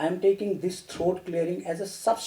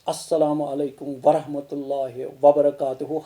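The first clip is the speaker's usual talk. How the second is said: rushed long greeting; 4 semitones lower, faster than usual. Shown as a demonstration. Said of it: "don't prolong your greetings".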